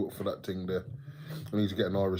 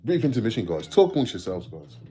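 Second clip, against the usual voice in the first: higher, much louder showman announcement; mock announcer; 3 semitones higher, 7 dB louder than usual. Streamer tells viewers he is stepping away, mock-announcer call. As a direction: call it out like a host going on break.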